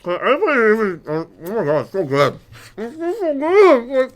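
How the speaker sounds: rapturous high squeal over food; excited. Real, not acted. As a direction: gush about how good it tastes. Tasting the food, raving.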